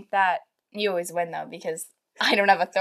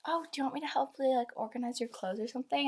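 imitating mom's offer; 6 semitones higher, 7 dB quieter than usual. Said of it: "And she was like".

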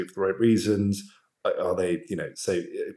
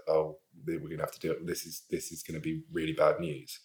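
emotional; 3 semitones lower, 8 dB quieter than usual. Real, not acted. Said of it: "I'm even getting emotional".

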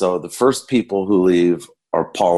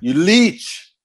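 impression of a famous singer; 10 semitones higher, slower than usual. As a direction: sneer it like the singer calling him a leech. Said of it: "and he says".

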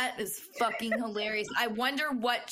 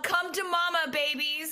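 higher, mock-welcoming call; playful yell; 6 semitones higher than usual. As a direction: call the babies over with glee. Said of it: "I would've yelled".

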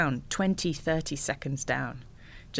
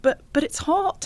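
server; 13 semitones higher, 3 dB louder than usual. Retold or imitated. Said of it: "server says".

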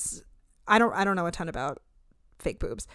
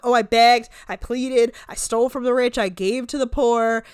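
unfazed boast; 3 semitones higher, 6 dB louder than usual. Retold or imitated. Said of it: "none of this fazing her".

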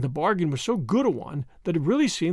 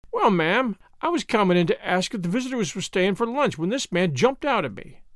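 lightly voiced grumbling maid; aggrieved servant. Servant explaining herself to her mistress, mildly aggrieved. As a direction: complain as a put-upon servant, lightly acted.

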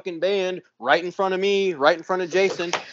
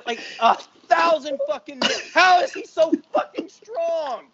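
ordinary talk

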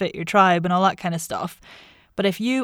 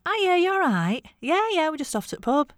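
much higher Irish phone voice; switched Irish accent; 10 semitones higher than usual. Retold or imitated. Irish student on the phone to mum, in exaggerated Irish accent. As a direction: slip into a high-pitched Irish accent for mum. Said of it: "What just happened to your accent there?".

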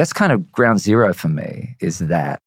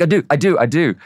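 higher, hurried insisting; 6 semitones higher than usual. Retold or imitated. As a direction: reassure yourself quickly. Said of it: "I'm like".

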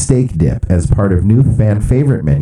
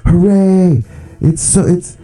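mock crazed fans; 7 semitones higher than usual. Host imitating fast food forum fans, hammed-up giddy cheering. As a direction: gush like a fan who lost all composure. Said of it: "are going crazy, going like".

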